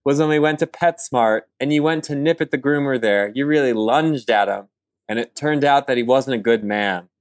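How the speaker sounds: earnest, overblown eulogy reading; reading a poem. Acted. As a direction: read it like a solemn tribute. Reads eulogy poem for dog.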